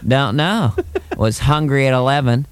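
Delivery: noncommittal Bush, dragging it out; George Bush impression. Bush dodging a lunch question, slow and evasive. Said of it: "He's very slippery".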